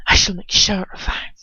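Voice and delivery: a held, breathy threat; forced calm. Acted. Furious wizard threatening to wipe her memory, forced calm. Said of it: "His voice struggles to keep calm".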